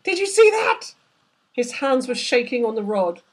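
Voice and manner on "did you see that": high, loud amazed question; shocked disbelief. A narrator's reading. The son asking the crew about the mermaid, shocked and loud. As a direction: blurt it out still stunned.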